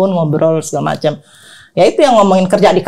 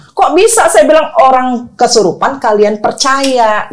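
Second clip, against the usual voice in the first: retold disbelief; 5 semitones higher than usual. Challenges visitor's claim in retelling.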